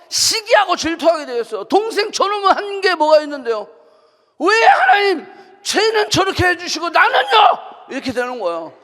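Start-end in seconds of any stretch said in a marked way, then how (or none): 1.7-7.4 jealous complaint. Retold or imitated. Elder son's jealous complaint to God.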